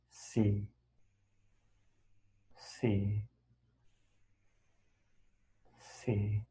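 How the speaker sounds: quiet, low, drawn-out noting; note each one softly with long pauses between; meditation noting. Shown as a demonstration. Demonstrates noting aloud during guided meditation.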